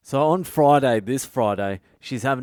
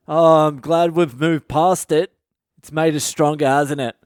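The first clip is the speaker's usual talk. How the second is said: louder and higher, hammed-up cheerful husband; mock cheerful husband; 5 semitones higher, 7 dB louder than usual. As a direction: play the oblivious cheater all sunny and loud. Michael imagined cheerily talking to wife.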